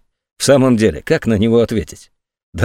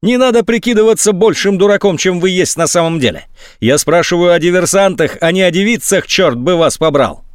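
angry rant; 8 semitones higher than usual. A narrator's reading. General yelling insults.

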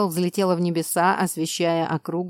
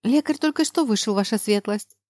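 maid voice; 3 semitones higher than usual. Acted. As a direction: speak as a humble maid. Maid addresses her lady. (почтительный голос служанки)

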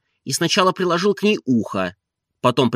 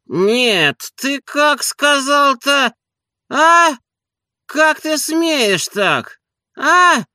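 very high, indignant squawk; high, loud bursts of offended questioning; outraged master; 4 dB louder, much slower than usual. A narrator's reading. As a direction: haul the servant over the coals. Offended master confronts rude servant.

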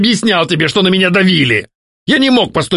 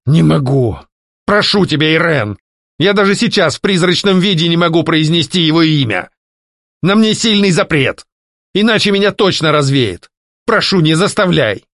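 higher, begging voice; ghost pleading; 7 semitones higher than usual. A narrator's reading. Ghost begging not to be made to say the name, higher. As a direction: implore her not to force him.

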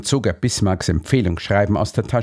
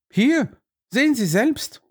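a little out of breath. Acted. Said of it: "ein wenig außer Atem".

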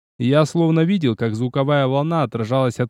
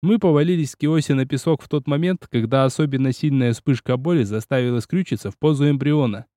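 plain reading voice

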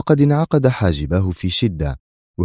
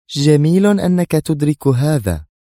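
much higher, louder and slow, smiling menace; fierce smile; 9 semitones higher, 4 dB louder than usual. Acted. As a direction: say it through a fierce grin, savouring the threat. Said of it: "قالت بابتسامة شرسة".

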